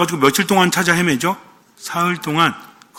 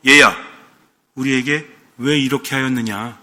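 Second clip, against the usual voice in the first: low, contained mother's reproach; restrained, lowered voice questioning a child; 4 semitones lower than usual. Acted. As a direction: hold the upset in, speak low and measured. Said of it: "하지만 절제되어 있지 않습니까?".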